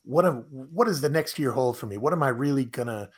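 mildly excited imitation of an eager asker; very excited questioning. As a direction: rattle off eager questions, lightly acted. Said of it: "somebody asked very excitedly".

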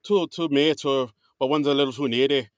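put-on light Irish accent for the host; a gentle, lightly done Irish brogue. Host retold to cohost in a light Irish accent. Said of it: "are we gonna do this Irish accent for the entire episode?".

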